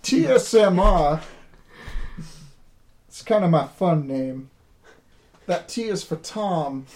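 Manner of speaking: lightly voiced drawling character; understated folksy drawl; slow drawl. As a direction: spell it out in a leisurely drawl, pausing between items. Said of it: "I'm stuck on slow drawl".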